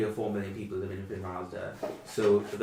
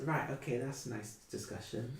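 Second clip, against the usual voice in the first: put-on taken aback old lady; 4 semitones higher, 6 dB quieter than usual.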